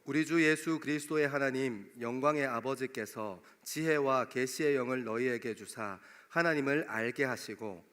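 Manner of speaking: normal talking voice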